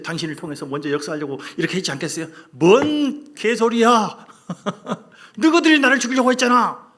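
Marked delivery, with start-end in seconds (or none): 2.5-6.9 loud, higher, laughing rage; angry outburst. Pretend. Preacher voicing Joseph rejecting his brothers, furious. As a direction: spit it out in scornful fury. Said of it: "이렇게 할 수도 있잖아요".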